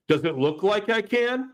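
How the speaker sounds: mock sarcastic retort. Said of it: "he looks at him and he goes".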